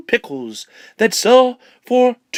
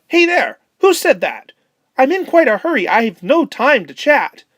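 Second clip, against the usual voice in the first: higher, startled and hurried penguin; 4 semitones higher than usual. Acted. Penguin Pomodoro startled by the hidden spider, higher and hurried. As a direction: jump at the voice, then brush it off in a hurry.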